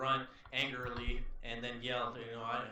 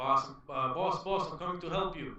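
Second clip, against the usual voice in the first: acted urgent shout, loud, high, calling; 5 semitones higher, 5 dB louder than usual. Rushing toward a wounded companion in a game, shouting in character. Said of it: "while I'm just shouting".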